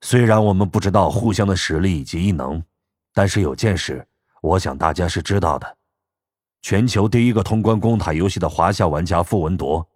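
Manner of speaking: lightly voiced old man, low and measured; a hint of an old man laying out facts. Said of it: "白人老头忽然开口".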